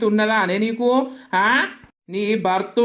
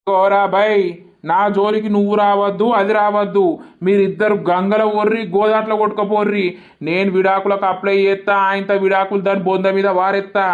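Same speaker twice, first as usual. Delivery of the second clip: furious shouting. Acted. Cheated man yells at the caller and his wife, furious. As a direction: shout him away in disgust.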